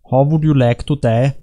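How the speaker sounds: put-on light German-accented movie villain; slightly hammed-up German accent. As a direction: ask it with a mock German accent. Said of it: "with a German accent".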